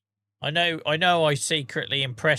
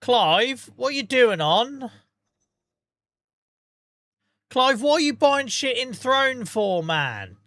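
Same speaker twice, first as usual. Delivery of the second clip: high, loud, shocked disbelief; incredulous, pitched right up; real shock; 9 semitones higher, 4 dB louder, slower than usual. Real, not acted. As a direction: burst out at Clive in shock. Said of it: "shock kicked in".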